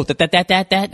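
real stutter, repeating that over and over; Porky Pig stutter. Real, not acted. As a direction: get stuck on that like Porky Pig. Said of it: "I sound like fucking Porky Pig".

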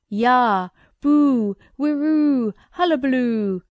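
loud, high roaring nonsense yells; roared cries. Acted. Pow wow man roars to frighten the little boy, loud yells. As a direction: bellow each cry to scare the child. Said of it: "yelled, shouted, raved, roared".

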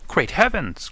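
high-pitched exclamation of shock; astonished cry. Acted. Inspector recognising the missing man, astonished cry. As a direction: cry out in amazement, without much extra volume. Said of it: "cried the inspector".

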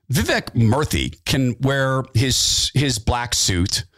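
normal talking voice

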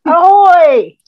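loud, high hammed-up pirate greeting; pirate ahoy. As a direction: bellow it like a pirate captain. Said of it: "first time I've said that out loud".

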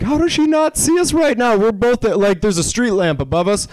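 high-pitched retold disbelief; incredulous. Retold incredulous reaction to woman.

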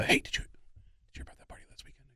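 hushed conspiratorial whisper. Retold or imitated. Agent whispering gossip to comic before stage.

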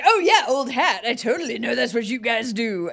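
mock breezy confidence; feigned nonchalance. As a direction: pretend it's old hat. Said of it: "I tried to look like".

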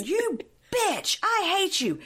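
high-pitched mock scream; imitated scream. Retelling her screaming in the street, high mock scream. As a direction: mimic her screaming without full volume. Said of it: "And she's screaming".

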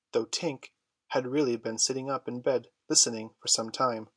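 ordinary delivery, nothing marked

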